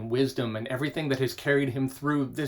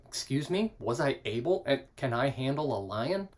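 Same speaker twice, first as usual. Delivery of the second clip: mildly offended; 4 dB quieter than usual. Acted. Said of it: "God listening to this going".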